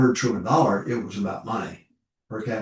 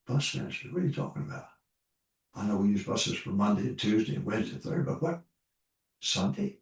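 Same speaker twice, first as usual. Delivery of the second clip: retold disbelief; 5 dB quieter, faster than usual. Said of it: "And I said".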